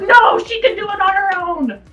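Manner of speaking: high-pitched indignant outburst; angry protest. Retold or imitated. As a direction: protest hotly on her behalf. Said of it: "like, so angry".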